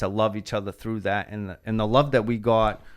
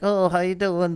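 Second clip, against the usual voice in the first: humble greeting; 9 semitones higher, 3 dB louder than usual. Retold or imitated. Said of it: "the most humble".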